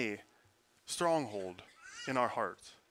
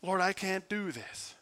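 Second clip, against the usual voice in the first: anguished plea; 5 semitones higher, slower than usual. Retold or imitated. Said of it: "that it was just".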